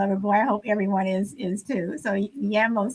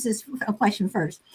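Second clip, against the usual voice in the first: whispered aside; 3 semitones lower, 6 dB quieter than usual. Real, not acted. Aside while reading chat.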